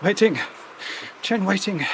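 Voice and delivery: "Chen Waiting" in a light mock Chinese accent; a hint of a Chinese accent on "Waiting"; lightly put-on Chinese accent. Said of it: "I did that accent".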